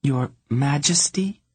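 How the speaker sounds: high, pointed correction rising at the end; correcting. A narrator's reading. Princess correcting her father on her title, correcting. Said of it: "she corrected him".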